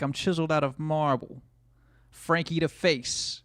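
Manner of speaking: strut it like an Italian stallion; Italian accent impression. Streamer imitating Frank's Italian persona, mock Italian accent. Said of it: "he'd be like".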